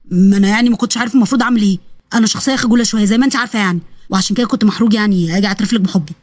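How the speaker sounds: low, sheepish confession; shy young man. Acted. (شاب خجول بيعترف بصوت واطي)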